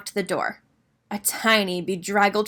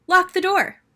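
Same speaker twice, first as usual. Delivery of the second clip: high, louder LOCK; stressed; 9 semitones higher, 5 dB louder than usual. A narrator's reading. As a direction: punch lock. Listing the plan.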